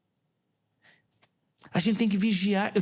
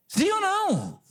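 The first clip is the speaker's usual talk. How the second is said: calling out; slower than usual. Real, not acted. Demanding an answer from congregation.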